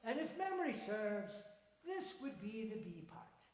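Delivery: cheery Irish-tinged man; lightly Irish old man. Acted. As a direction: marvel at the lad's luck. Voices Donald.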